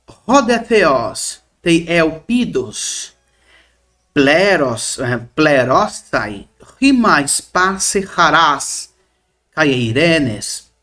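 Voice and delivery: slow, careful recitation of the Greek verse; slow Greek reading. Shown as a demonstration. Teacher reading the Greek text aloud, slow and careful. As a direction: read each Greek word out slowly for the class.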